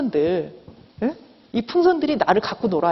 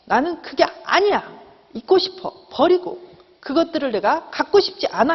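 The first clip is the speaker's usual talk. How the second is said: higher-pitched acted refusal to face it; denial; 6 semitones higher than usual. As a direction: push it away in a raised voice. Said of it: "그런 부분에 나를 외면하고". (높은 목소리로 외면하며 부정하듯)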